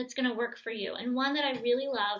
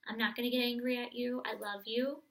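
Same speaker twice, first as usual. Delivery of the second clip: tender reassurance. Shown as a demonstration. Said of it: "and just say".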